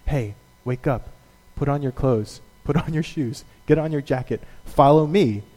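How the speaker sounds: a parent droning the school routine; tired parent. Retold or imitated. Parent getting a kid to school, weary mock orders. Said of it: "routine ... get your kid to school".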